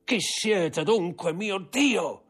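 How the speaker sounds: terror climbing toward a scream; frantic dread. Acted. Villefort facing the hidden enemy, frantic high dread.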